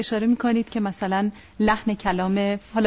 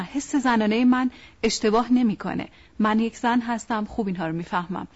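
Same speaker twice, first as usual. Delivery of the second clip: insisting wife. Retold or imitated.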